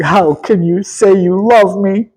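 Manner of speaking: a light whiny Delilah plea; a hint of a whining lover; mock crying Delilah. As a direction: imitate her pleading, mildly tearful. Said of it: "she comes crying again".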